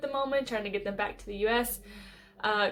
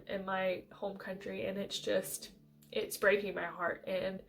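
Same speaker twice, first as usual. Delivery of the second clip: choked up, voice breaking; 3 semitones lower, 8 dB quieter than usual. Real, not acted. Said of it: "you could see the emotions that it stirred up in me".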